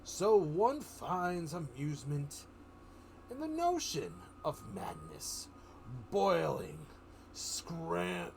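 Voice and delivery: a hint of the Joker, slow and menacing. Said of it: "Joker says".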